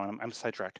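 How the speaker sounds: losing the thread, fading out; trailing off. Real, not acted. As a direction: drift off mid-thought, voice dropping. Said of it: "I lost my train of thought".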